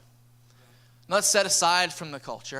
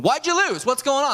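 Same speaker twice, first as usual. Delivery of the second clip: higher, louder mock-incredulous asking; surprised question; 7 semitones higher, 4 dB louder than usual. Pastor asks the soccer kid why they lost, mock astonished. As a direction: act stunned at the losing streak.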